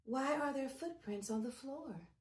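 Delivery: a hint of a gentle mother bear; lightly voiced mama bear; mild mother bear voice; soft Mommy Bear. A narrator's reading. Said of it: "in her soft, low voice".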